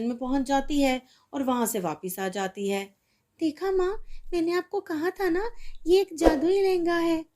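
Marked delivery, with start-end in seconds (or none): 3.4-7.2 put-on high, proud child voice; girl showing mom the magic, proud; triumphant girl. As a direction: told you so. Girl proves it.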